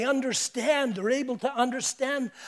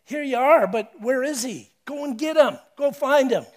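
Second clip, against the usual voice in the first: demanding priests; 3 semitones higher, 5 dB louder than usual. Retold or imitated. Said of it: "It, it's like".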